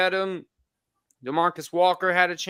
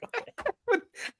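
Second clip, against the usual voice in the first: high-pitched breathy giggle; 6 dB quieter than usual. Real, not acted. High laugh.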